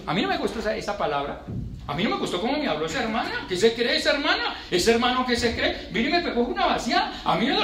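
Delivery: a hint of a touchy churchgoer, pitch up, half laughing; mock a sulky believer; childish offended adult. Preacher mocking an offended church member, mildly childish. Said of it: "El niño hace eso".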